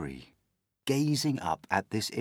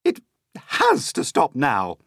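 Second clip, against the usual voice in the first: loud, raised-pitch insistence; yell; 5 semitones higher, 6 dB louder than usual. A narrator's reading. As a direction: yell it like a demand. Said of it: "Aunt Spiker yelled".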